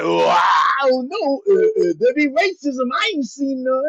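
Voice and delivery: lightly hammed-up shuck-and-jive voice; mock coon voice. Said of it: "He put on a coon voice".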